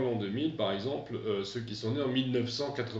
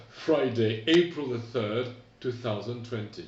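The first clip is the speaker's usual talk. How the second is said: corrected American date; 5 dB louder than usual. Shown as a demonstration. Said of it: "Je reprends".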